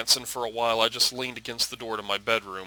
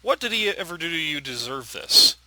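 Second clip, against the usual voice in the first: higher-pitched accusing question; angry; 6 semitones higher, 4 dB louder than usual. Acted. Daughter defending her dead grandfather to her father, angry. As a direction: demand an answer, upset. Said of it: "it made me feel so angry".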